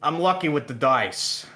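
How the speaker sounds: light New York twang on lucky; New York accent. Pretend. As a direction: say it like a New Yorker. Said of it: "I love it".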